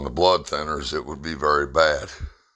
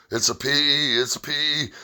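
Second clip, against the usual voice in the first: urgent doctor; 11 semitones higher than usual. Retold or imitated. Doctor's urgent diagnosis quoted.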